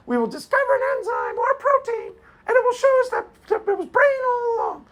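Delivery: high, mocking falsetto; Patricia Churchland imitation. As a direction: squeak each word like a smug professor. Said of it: "it was a good imitation".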